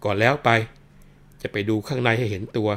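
mocking policeman. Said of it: "ตำรวจก็ร้องบอกว่า".

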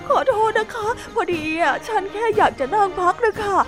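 high, teary sorry, slowing at the end; high whimpering apology; tearful apology. Acted. Startled hippo apologises, teary.

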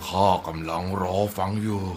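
low, winded giant voice; worn-out giant, out of breath; panting giant. Acted. Black giant answers the girl after digging, panting. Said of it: "ยักษ์ดำหอบจนซี่โครงบานก่อนตอบว่า".

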